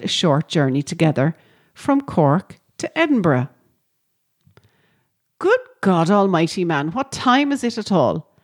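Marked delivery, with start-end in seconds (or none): 5.4-8.3 groggy outburst. Retold or imitated. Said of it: "That was my reaction on being woken up".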